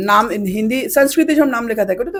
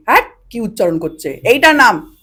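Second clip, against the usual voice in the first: mock scolding; 5 dB louder than usual. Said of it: "আমি বকা খেয়েছি".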